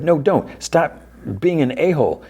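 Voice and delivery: high-pitched mock scolding; retold exasperated protest. Dustin yanking Steve off the ladder, imitated high protest. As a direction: imitate a worried friend telling him off.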